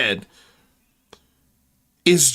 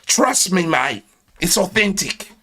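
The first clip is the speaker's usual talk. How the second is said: mock Australian; 2 semitones higher than usual. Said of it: "That's the international version of".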